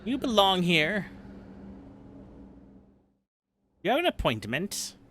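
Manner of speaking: high, prim receptionist voice; snooty secretary voice. Retold or imitated. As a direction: play a stuck-up front-desk secretary. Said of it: "She's one of those secretaries".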